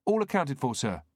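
distant radio reply; tinny radio voice. A narrator's reading. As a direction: crackly voice from the radio. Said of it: "replied a tinny voice".

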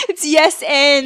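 loud insistence; emphatic protest. Real, not acted. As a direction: belt out the rule in protest. Insisting on improv rule.

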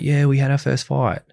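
lightly put-on celebratory voice; mock cheering. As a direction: imitate a chirpy public announcement of good news. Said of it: "we'll cheer and be like".

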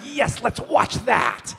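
slow, high dazed stoner voice; stoned drawl. Retold or imitated. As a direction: play it slow and spaced out. Stoned guy answering host.

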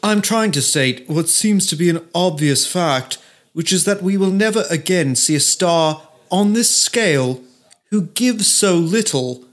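lightly put-on posh English accent, reading the article; a hint of a posh British journalist reading his own words; mock posh English accent. Host mocking the journalist's article in a posh English accent. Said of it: "he probably has a posh accent".

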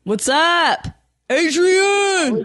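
loud, high excited shout of the name; excited greeting. Real, not acted. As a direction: greet a friend with delight.

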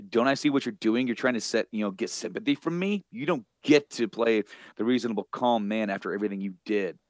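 understated retold anger; mildly mad retelling. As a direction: lightly imitate an angry confrontation. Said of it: "She's getting mad".

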